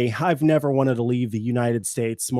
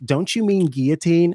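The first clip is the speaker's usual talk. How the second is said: higher-pitched mock correction; imitated corrector; 4 semitones higher than usual. Imitating someone who corrects the speaker, higher mock-helpful question. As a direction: query it like a know-it-all. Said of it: "someone's like".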